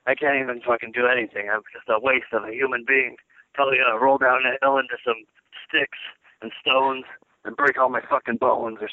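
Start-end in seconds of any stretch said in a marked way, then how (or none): 0.1-3.1 hungover. Real, not acted. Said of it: "I'm, I'm hungover right now".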